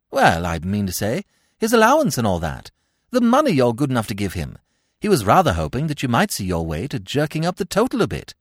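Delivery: quick, hesitant pitch for a favour; lightly voiced chatty young gentleman, rushing along; awkward upper-class chap. Bertie awkwardly asks for money.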